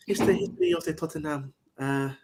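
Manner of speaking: hammed-up Italian footballer accent; mock Chiellini, thick Italian accent. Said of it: "imitate the voice of a certain legend known as Giorgino Chiellini".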